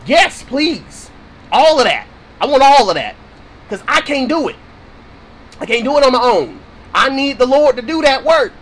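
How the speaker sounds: impassioned plea to God, rising; fervent prayer. Real, not acted. Fervent prayer to God mid-sermon.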